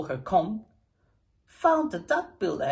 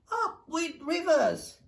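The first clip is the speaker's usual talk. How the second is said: higher, slow happy hoot; high slow joyful hoot; 8 semitones higher, slower than usual. A narrator's reading. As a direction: hoot it with delight. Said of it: "And they hooted".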